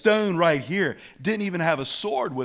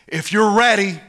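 Nebuchadnezzar raging; 6 semitones higher, 7 dB louder than usual. Acted. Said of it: "King Nebuchadnezzar is raging".

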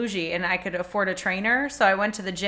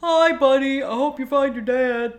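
high, bright, wide-eyed movie elf; Christmas elf voice; 5 semitones higher, 5 dB louder than usual. Acted. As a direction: greet him like an eager Christmas elf. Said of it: "Like the movie".

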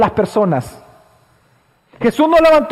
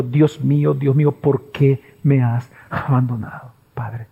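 anguished cry; 9 semitones lower, 3 dB quieter than usual. Retold or imitated. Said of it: "Porque lo gritó".

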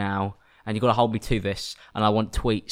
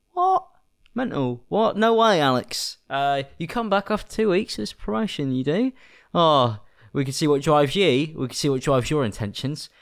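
mock outraged fan; 3 semitones higher than usual.

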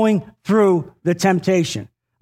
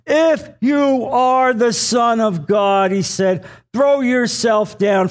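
taunting devil; 5 semitones higher, slower than usual. Acted. Reads the devil's dare.

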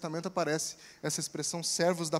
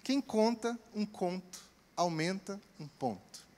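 slow motion; 6 dB quieter than usual. Shown as a demonstration. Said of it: "Eu tive que falar em câmera lenta".

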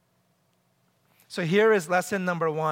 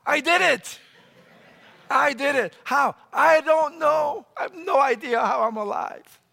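high, raised-voice cry of disbelief; amazed triumph; 7 semitones higher, 4 dB louder than usual. Retold or imitated. Preacher reports home after tense mediation, loudly amazed. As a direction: exclaim it like a baffled survivor. Acts out relieved return home.

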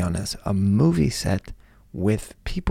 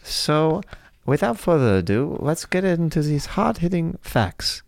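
put-on little kid voice; 3 semitones higher than usual. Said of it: "I'm doing an eight-year-old".

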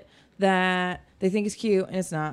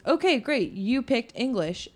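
phone menu voice; 4 semitones higher than usual. Retold or imitated. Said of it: "and then it goes".

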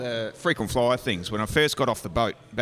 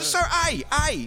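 very high, insistent voice; insistent mock. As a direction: hammer out the letter, pitched way up. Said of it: "And I said".

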